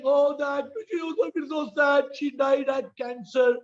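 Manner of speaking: hammed-up lament over a film; mock crying. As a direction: put on a weepy complaint. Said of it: "cry, you're crying".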